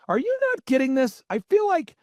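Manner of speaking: high, theatrical impersonation; Michael Levine. Retold or imitated. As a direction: ham it up, pitched well above normal. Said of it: "this is how he talks".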